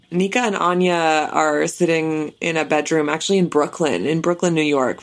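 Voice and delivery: measured news reporter delivery. Pretend. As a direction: report it like a TV correspondent. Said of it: "this is my official, uh, reporter voice".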